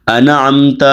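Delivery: انعمت broken as 'ana-amta', a vowel slipped after n; wrong released nun. Shown as a demonstration. Teacher imitates students' mistake, انعمت with loose nun. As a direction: let the n in انعمت go loose into 'ana'. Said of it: "ساتھی یہاں پہ صحیح نہیں پڑھتے".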